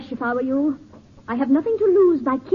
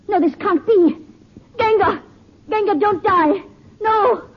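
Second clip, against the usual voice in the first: rising, higher cries of disbelief; panicked dismay; 6 semitones higher than usual. Acted. Woman pleading with dying man, panicked and higher. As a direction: unravel as the prize slips away.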